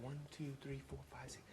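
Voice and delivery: soft, hushed counting to himself; murmured tally of people rushing back; counting under his breath. Retold or imitated. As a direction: count quietly, almost to yourself.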